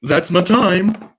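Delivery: milk the closing line; mock grand finish. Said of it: "a totally original way".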